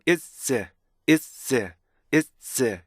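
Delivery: IS split into i, stop, z; "is" in two detached beats. Shown as a demonstration. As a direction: separate the vowel of "is" from its buzz. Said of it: "이것도요, 리듬을 타요".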